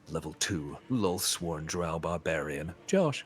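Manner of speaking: slow, grand game-title read; game announcer voice. Retold or imitated. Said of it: "it says, when it's like".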